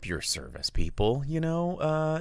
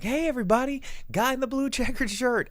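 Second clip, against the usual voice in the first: high-pitched holler to a whole room; big dad voice calling everyone's attention; re-enacted bar shout; 3 dB louder than usual. Host recreating his shout across the bar, high and projected. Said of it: "I just shouted in the bar".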